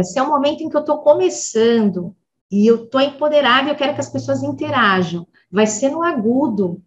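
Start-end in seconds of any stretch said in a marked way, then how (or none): none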